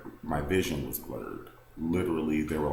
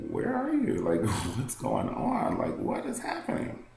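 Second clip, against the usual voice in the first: high, breathless questions into an empty house; a terrified child searching for mom; frantic child's cry; panicked kid calling out; 5 semitones higher than usual. Retold or imitated. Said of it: "I was still calling my mom".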